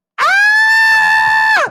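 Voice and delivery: high, loud wailing scream. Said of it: "everybody starts absolutely wailing".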